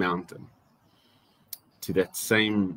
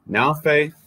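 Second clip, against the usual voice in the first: "Now" lifted high and louder; stress on now; 7 semitones higher, 5 dB louder than usual. Shown as a demonstration. Preacher to church, proclaiming the verse opening, stress on NOW. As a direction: hit "Now faith" hard, lifting "Now". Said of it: "I love the way that it starts".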